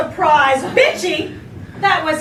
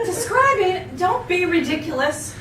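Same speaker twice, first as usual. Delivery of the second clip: innocent indignation. Acted. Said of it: "in a tone of innocent indignation".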